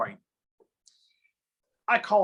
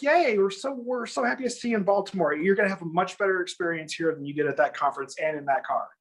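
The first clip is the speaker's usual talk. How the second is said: mock gushing welcome; 3 semitones higher, faster than usual. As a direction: gush over him like a chirpy recruiter. Upline's friend gushing welcome.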